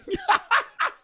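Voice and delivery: squeaky burst of laughter; high-pitched laugh. Real, not acted. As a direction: crack up, very high. Cracking up at copper tubing.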